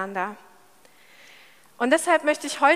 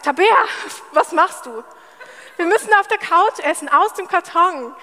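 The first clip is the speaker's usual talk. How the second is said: higher, louder playful protest; mock indignation; 5 semitones higher, 4 dB louder than usual. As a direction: protest in exaggerated disbelief. Spielt empörte Reaktion auf gedeckten Tisch. (gespielt empört)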